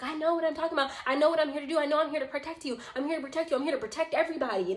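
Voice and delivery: imitating a frantic, high-pitched insistence; mock manic rant, pitch held high; spazzing. Woman vows to protect everybody, spazzing. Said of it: "Because she was spazzing".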